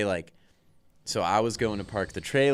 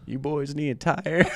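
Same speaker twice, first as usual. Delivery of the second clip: high, laughing imitation of a friendly old man; lightly voiced helpful stranger, laughing through it; a hint of a kindly old guy; old dude; 7 semitones higher, 3 dB louder than usual. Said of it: "he comes up and he goes".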